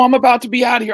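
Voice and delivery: excited shout. Retold or imitated. Rookie telling the scout he's leaving, excited shout. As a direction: shout it out like you can't wait.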